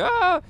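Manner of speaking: very high mock squeal of delight; short high "ah" imitating her laugh; imitated laughing squeal. Comic imitating waitress laughing at his joke, squealing. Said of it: "again, she's laughing".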